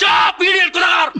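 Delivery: angry shout. Acted. Furious quarrel.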